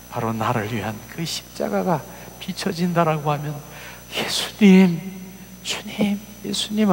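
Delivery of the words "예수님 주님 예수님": crying out. Acted. Crying out to Jesus.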